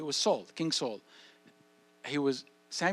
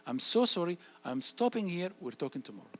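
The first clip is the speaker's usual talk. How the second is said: parrot-like repetition. Shown as a demonstration. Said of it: "You just repeat yourself like a parrot".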